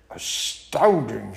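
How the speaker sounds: low, slow astonished beast; hushed Gruffalo amazement; amazed Gruffalo. Acted. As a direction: draw it out low, in slow wonder. Gruffalo's amazed reply in the story.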